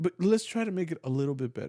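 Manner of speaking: very high, gentle, encouraging teacher voice. Retelling how a soft director would correct musicians: imitating a gentle teacher voice. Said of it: "you put on that teacher voice".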